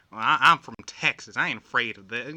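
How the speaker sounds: put-on light Texan accent, bold and quick; Texan impression. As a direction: imitate a fearless Texan woman. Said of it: "She just goes in there".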